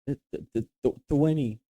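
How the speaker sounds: imitated nervous stammer on the answer; retold timid stammer. Boy repeating his answer to teacher, timid stammer. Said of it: "And she'd be like, "What?".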